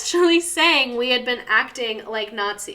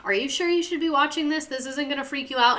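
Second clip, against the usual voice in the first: lightly imitated mom, higher pitched; a hint of a concerned parent checking; worried mom; 6 semitones higher than usual. Mom checking on her scared kid, lightly voiced worry. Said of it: "my mom was like".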